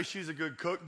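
soft, mumbled half-hearted brag; limp bragging. Shown as a demonstration. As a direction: mumble it like you don't mean it. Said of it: "Don't say".

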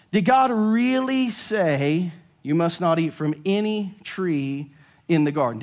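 'really' drawn out slowly, rising; stress on really. Shown as a demonstration. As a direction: lean on the word 'really' slowly. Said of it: "you need to circle this word really".

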